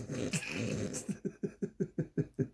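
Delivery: long quiet breathy laugh; silent wheezing laugh. Real, not acted. Laughs at own joke.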